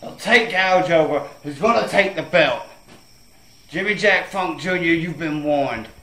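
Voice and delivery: promo threat. Acted.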